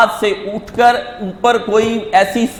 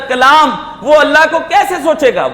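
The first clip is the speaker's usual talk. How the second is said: raised preaching cry; 4 semitones higher than usual. Acted. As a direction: push the question out like a challenge from the pulpit. Preacher builds list to climax.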